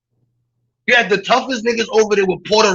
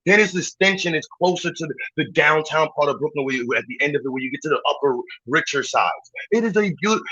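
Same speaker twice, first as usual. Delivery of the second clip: lower, gushing brochure voice; lower, hushed mock-refined praise of the neighborhood; mock tour-guide praise; 4 semitones lower than usual. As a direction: sell the neighborhood like a smooth realtor. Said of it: "this is how you talk about Park Slope".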